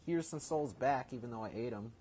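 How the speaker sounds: lightly voiced merchant, high and amused; voicing Volgrim. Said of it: "and Volgrim will be like".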